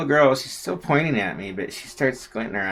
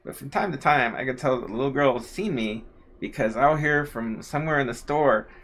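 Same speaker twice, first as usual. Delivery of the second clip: ordinary talk, nothing marked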